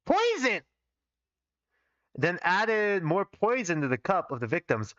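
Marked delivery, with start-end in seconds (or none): 0.1-0.6 dramatic cry. Acted. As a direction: belt it out like a stage reveal. Mock-dramatic outburst at reveal.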